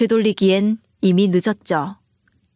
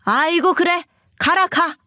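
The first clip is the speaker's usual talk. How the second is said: higher, scornful mother-in-law waving her off; scoffing; 6 semitones higher than usual. Acted. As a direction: scoff as if it means nothing to you. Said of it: "기가 찬 듯 코웃음 치시더군요".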